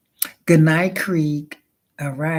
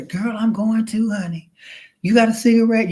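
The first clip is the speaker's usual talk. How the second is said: higher, sassy gal-pal robot; sassy girlfriend voice; 6 semitones higher than usual. Retold or imitated. Robot asking its friend for a cigarette, sassy and higher. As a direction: play the robot as a gossiping girlfriend.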